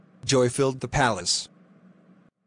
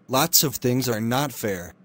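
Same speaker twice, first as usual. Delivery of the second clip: shrugging off. Acted. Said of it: "said the imp with a shrug".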